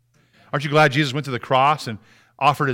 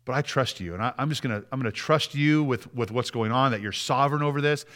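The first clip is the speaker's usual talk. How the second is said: soft, earnest talk to God; quietly entrust yourself, halting at first; subdued, sincere prayer of trust; 2 semitones lower, 5 dB quieter than usual. Shown as a demonstration. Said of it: "we need to stop and say".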